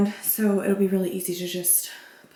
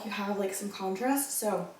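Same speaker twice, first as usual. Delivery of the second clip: out of breath; 7 dB quieter than usual. Real, not acted. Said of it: "I'm out of breath from going up the steps".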